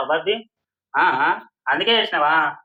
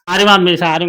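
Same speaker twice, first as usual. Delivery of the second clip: loud apology; 6 dB louder than usual. Real, not acted. Apologizing while being hit.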